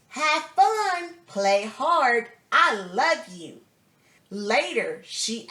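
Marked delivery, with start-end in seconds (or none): 0.1-3.6 mock cheer from the sidelines, louder; cheering shout. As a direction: call it out like a proud mom at the field. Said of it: "she shouts for me".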